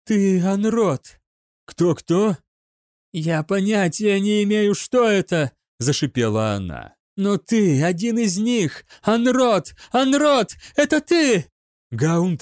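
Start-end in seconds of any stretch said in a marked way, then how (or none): 0.1-5.5 put-on possessed girl; eerie seer. A narrator's reading. Witch speaks. 7.2-11.5 accusing shriek. A narrator's reading. Witch accuses, building.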